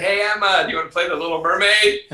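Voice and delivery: high, loud and fast, eager invitation; bright mock-eager parent calling the child; extra enthusiasm. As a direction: sell the game like it's the best thing ever. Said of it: "ten minutes of extra enthusiasm".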